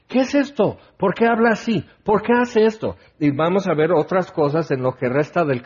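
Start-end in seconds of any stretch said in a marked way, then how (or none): 0.1-3.0 amazed crowd questions. Retold or imitated. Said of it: "hace preguntar a la gente".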